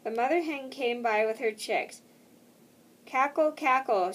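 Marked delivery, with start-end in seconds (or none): 3.1-4.1 mock hen cackle. A narrator's reading. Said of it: "she chucked and laughed".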